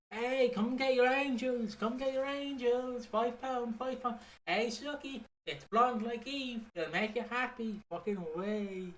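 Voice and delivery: high, bawling market-stall hawker; market trader. Retold or imitated. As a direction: shout your wares like a stallholder. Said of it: "She's like".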